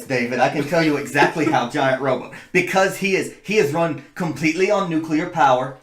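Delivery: talking through a retainer. Pretend. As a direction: speak as if wearing a retainer. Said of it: "if I might use my retainer voice".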